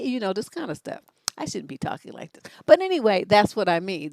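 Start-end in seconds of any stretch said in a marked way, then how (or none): none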